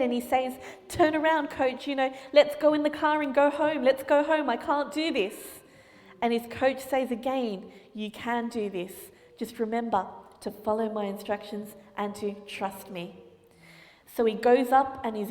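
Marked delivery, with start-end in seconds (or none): 0.9-5.6 put-on scared boy. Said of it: "he's starting to get scared". 7.9-13.2 reassuring coach. Acted. Coach reassuring nervous boy.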